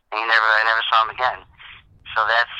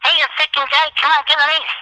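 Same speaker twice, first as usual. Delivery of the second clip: much higher, loud heckler shout; mock heckle yell; 5 dB louder than usual. Fan heckling Djokovic before his serve, loud yell. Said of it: "I yell out".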